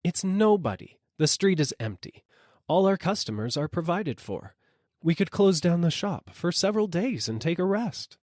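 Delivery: wife dismissing her husband's fancy; dismissive wife. A narrator's reading. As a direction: wave the idea away.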